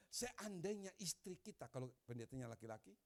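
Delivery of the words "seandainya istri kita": louder, higher and slow; quoting the speaker, slowly. Retold or imitated. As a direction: deliver the speaker's words like a proclamation. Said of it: "Lalu dia katakan ini". (mengutip dengan lantang dan lambat)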